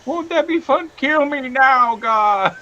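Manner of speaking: high, loud, drawn-out mock despair; sketch character voice. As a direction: ham up the sketch line, slowly. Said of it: "the Chris Farley and Adam Sandler sketch".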